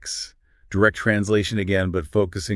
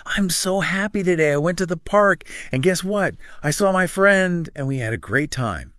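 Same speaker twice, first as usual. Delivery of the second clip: much higher, bouncing sing-song tune; lively, natural; 11 semitones higher than usual. Shown as a demonstration. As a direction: tell it like happy news you can't wait to share. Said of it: "the more natural, lively".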